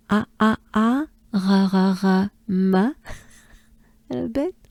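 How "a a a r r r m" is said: A, A, A open, then R in the throat, then M; isolated French sounds A, R and M, evenly repeated; sound-by-sound drill. Shown as a demonstration. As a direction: break charme into separate A, R, M sounds. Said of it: "So let's go for it".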